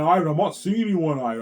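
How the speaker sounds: high, loud mocking wife voice; wife's denial. Husband mocking his wife's shrill denial. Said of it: "she's gonna lie".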